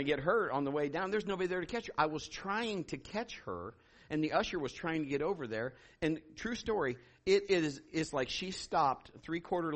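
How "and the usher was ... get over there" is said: normal talking voice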